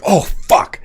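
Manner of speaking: high, breathy oh fuck; startled whisper. Retold or imitated. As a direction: gasp it out as it blows. Dry ice bomb explodes.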